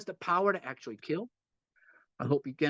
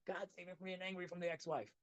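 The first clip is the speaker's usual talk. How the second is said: much softer, murmured prayer; 14 dB quieter than usual. Pretend. Reciting the morning prayer to God, hushed and soft. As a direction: pray it under your breath. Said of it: "use that prayer on sixty".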